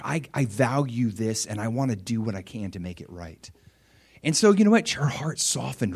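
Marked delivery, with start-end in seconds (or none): 0.0-3.5 meek peacemaker. Retold or imitated. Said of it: "But I came in meekness".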